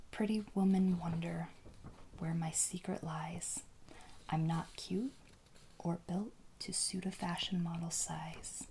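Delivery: hushed ASMR poetry recital; measured, pausing whispered verse; whispered poem reading. Real, not acted.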